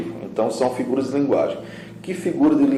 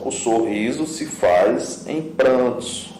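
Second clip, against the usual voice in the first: slow reading; slower than usual. Shown as a demonstration. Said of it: "Olha só".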